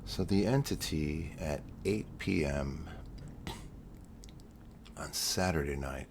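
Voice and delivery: soft, hushed storytelling voice; mock ASMR. Streamer switching his alien story to ASMR, softly hushed. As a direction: lull them toward sleep, barely above a breath. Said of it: "I decided this is A S M R now".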